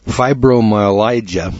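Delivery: fibromyalgia spelled out slowly, syllable by syllable; careful slow pronunciation. Shown as a demonstration. Host reading a tough medical word to listeners, slow and careful. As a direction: drag out fibromyalgia as a hard word. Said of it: "That's a bad word".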